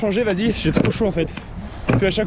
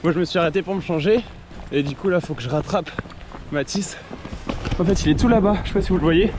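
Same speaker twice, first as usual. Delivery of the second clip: talking while jogging; a little winded from running. Real, not acted. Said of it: "je suis en train de courir".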